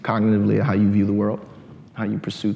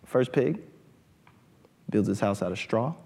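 ordinary delivery

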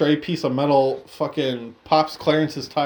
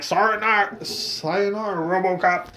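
higher, lightly voiced villain sneer; mock villain farewell; 4 semitones higher than usual. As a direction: taunt the fallen cop. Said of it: "Clarence is like".

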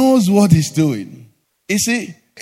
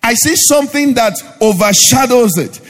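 emphatic, projected sermon delivery; impassioned preaching; 2 semitones higher, 4 dB louder than usual. Real, not acted. Preacher to congregation on seeing God, impassioned preaching. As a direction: drive each point home to the congregation.

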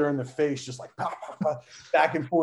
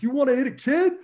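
yelled high and loud at the attacker; angry shout; 13 semitones higher, 6 dB louder, faster than usual. Retold or imitated. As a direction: bark it as a furious threat. Father confronting the drunk puncher.

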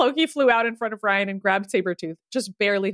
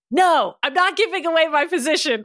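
higher, moderately raised yell; 7 semitones higher, 4 dB louder than usual. A narrator's reading. Ryan answers from his hiding spot, mildly yelled. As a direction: call back defiantly, half yelled. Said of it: "Ryan yelled".

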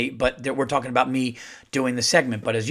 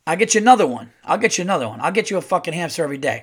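loud, higher, insistent promise; emphatic reassurance; 5 semitones higher, 4 dB louder, much faster than usual. Retold or imitated. Father to daughter about the hamster, loud emphatic promise. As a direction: hammer home the promise, rising in pitch.

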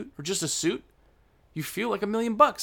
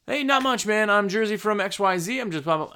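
quick, higher-pitched mimicking of a fast talker; talking faster; 4 semitones higher than usual. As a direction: rattle it off like a New Yorker. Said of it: "they're talking faster".

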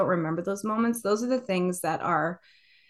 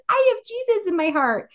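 little one; 13 semitones higher than usual. Retold or imitated. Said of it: "The little one says".

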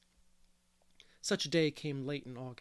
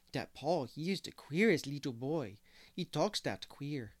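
attempted French-Canadian accent. Boy quotes hired girl Mary Joe, in French-Canadian accent. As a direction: lightly imitate French-accented speech. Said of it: "I heard Mary Joe say".

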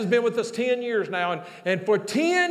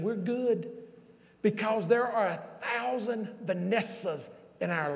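softer, lower heartfelt storytelling; hushed, moved preaching; 3 semitones lower, 5 dB quieter than usual. Real, not acted. Preacher tells congregation why they carry on, hushed sincerity. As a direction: bring it down quiet and let it land.

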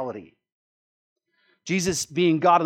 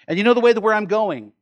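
voicing Jesus; 5 semitones higher, 7 dB louder, faster than usual. Preacher voicing Jesus in quote.

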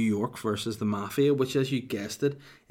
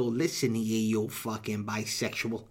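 mock mafia insult; 2 semitones lower, 4 dB quieter, slower than usual. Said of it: "doesn't sound as good to go".

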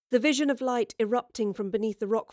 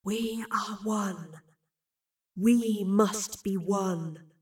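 slow creeping voice; much slower than usual. Acted. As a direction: draw it out like a spell. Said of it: "crawling into her ears so slowly".

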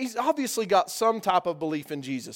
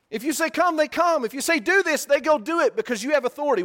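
higher, louder, building preaching; rising preacher fervor; 7 semitones higher, 3 dB louder than usual. Real, not acted. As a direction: build it up, higher with each command.

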